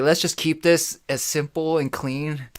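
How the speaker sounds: slow, drawn-out calm words; deliberately slowed. Retold or imitated. Calmly stalling a robber, slow and drawn out. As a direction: stall him by speaking slowly. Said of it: "I slowed everything down".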